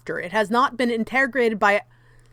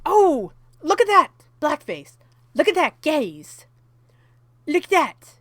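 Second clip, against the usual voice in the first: mock distraction; 3 semitones higher than usual. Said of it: "this seems like a red herring".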